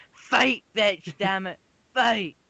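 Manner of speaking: high mock shouting owner yelling at her doll; greedy owner. Doll owner yelling at her fighting doll, mock shout. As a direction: bark orders like a greedy stage mom.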